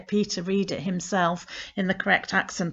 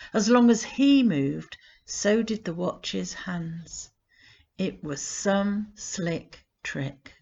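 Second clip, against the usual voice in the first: poem reading. Acted. Reading a grandpa poem to listeners, gentle and measured. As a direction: read the poem to listeners, unhurried. Reads her poem aloud.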